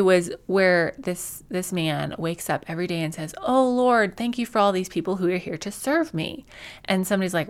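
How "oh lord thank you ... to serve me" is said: mock grateful prayer. Man thanking the Lord for people who serve him, mock grateful prayer. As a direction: lightly act out a thankful prayer, easing down after the opening. Acting out a man's morning prayer.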